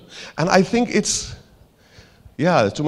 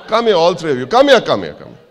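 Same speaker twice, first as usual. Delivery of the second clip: calling over; 7 semitones higher, 6 dB louder than usual. Real, not acted. Summons three departing audience members over.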